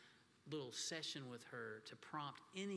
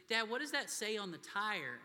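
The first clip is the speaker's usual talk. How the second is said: put-on curious child; 5 semitones higher, 7 dB louder than usual. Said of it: "she goes".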